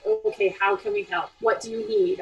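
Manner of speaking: low, measured, patient helper voice. Acted. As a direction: hold back and gently offer help. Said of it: "hold that patient line".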